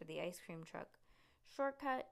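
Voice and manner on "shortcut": high, loud call; yelled shortcut. A narrator's reading. Rose yells as she turns off the road. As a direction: shout the plan out. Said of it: "she yelled".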